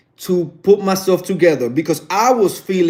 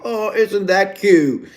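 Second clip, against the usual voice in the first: high, slow, drawn-out coo; cooing attendants; 4 semitones higher, slower than usual. Retold or imitated. Flight attendants watching wife make husband's bed, imitated coo. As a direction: imitate onlookers cooing over a sweet couple.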